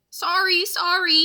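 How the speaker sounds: apologising while rushing by; loud flustered apology; yelled apology. Acted. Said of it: "yelled Jack".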